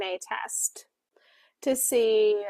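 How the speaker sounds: unvoiced whispered aside; whispered aside to viewers. Real, not acted. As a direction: drop to a breathy whisper mid-sentence. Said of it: "unexplained whispered aside".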